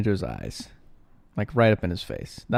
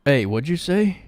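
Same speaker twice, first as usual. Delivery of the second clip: louder, sharper call-out; confrontational challenge; 5 semitones higher, 4 dB louder than usual. Acted. Jarvis challenging the guard who insulted him, sharply. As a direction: spin round and challenge the insult.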